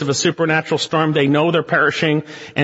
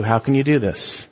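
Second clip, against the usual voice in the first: gentle rebuke; 3 semitones lower than usual. Retold or imitated. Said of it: "Maybe God's saying to you".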